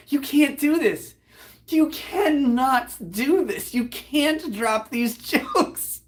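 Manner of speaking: high, slow protest breaking into laughter; laughing protest. Retold or imitated. Teller recalls begging the joker to stop, laughing protest. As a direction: drag out each word, half laughing. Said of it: "I was laughing so fucking hard".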